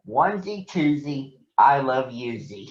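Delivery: teasing jump-rope rhyme; mock the little sister; mocking sing-song. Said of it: "a mocking tone".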